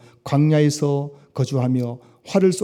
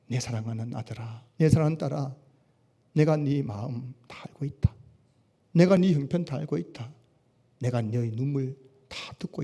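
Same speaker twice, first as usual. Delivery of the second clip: tender voice of God; 6 dB quieter than usual. Acted. God's voice answering the weeping.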